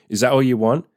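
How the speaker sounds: playful, joking tease; cheeky teasing. Shown as a demonstration. Man teasing his partner in bed, cheeky and joking. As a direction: tease her like you're withholding a treat. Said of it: "say it in a cheeky way, in a joking way".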